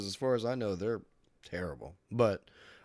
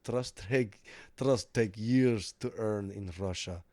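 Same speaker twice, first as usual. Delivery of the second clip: put-on Russian accent; slower than usual. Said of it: "he goes".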